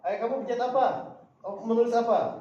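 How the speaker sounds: lively re-enacted coaching; encouraging prompting. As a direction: urge a pupil on letter by letter. Teacher prompting child letter by letter.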